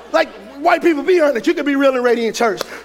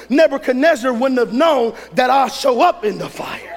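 forceful sermon delivery with punched key words; preaching. Real, not acted. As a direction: preach it hard to a congregation.

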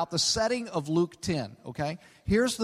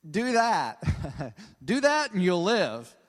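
wry, amused go-ahead with a chuckle; tongue-in-cheek, smiling; slower than usual. Retold or imitated. Jesus humoring the law teacher, tongue-in-cheek. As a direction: say it through a knowing smile. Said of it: "saying with a smile on his face".

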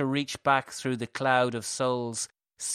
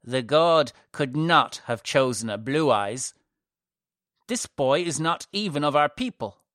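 loud, raised-pitch indignant objection; scowling priestess; 4 semitones higher, 7 dB louder than usual. A narrator's reading. High priestess rejects a blue-eyed child before his mother, indignant. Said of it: "Her scowl deepened".

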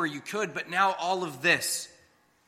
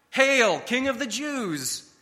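mocking; 6 semitones higher, slower than usual. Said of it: "they had mocked as they struck him".

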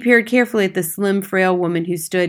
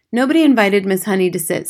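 ordinary delivery, nothing marked

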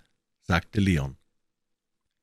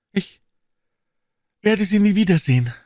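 despairing; 12 semitones higher, 5 dB louder than usual. A narrator's reading. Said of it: "sagte sie verzweifelt".

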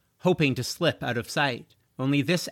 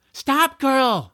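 loud, high command; 10 semitones higher, 6 dB louder than usual. Acted. George ordering his dragon to stop climbing. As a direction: call her off sharply. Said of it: "said George".

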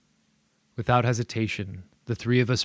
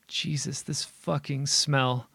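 choked, disgusted, higher; 5 semitones higher, slower than usual. Acted. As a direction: spit it out in disgust. Disgusted at the stench.

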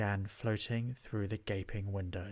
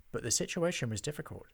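ordinary delivery, nothing marked

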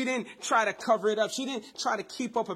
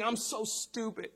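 self-blaming thoughts; 4 semitones higher than usual. Retold or imitated. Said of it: "She's probably thinking".

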